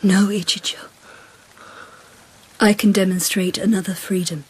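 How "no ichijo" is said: hushed tender denial; tender whisper. Acted. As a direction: whisper his name close. Tender reassurance to the emperor.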